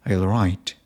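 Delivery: British-style question with "right" going down; falling intonation. Shown as a demonstration. Demonstrating British English questions to viewers, falling intonation. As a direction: drop the pitch on "right" instead of lifting it. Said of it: "the intonation goes down at the end".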